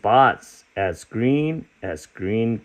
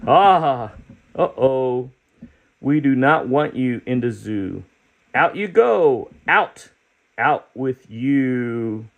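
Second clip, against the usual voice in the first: put-on shooing children; 3 semitones higher, slower than usual. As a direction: chase him out of the zoo. Children voiced in the book.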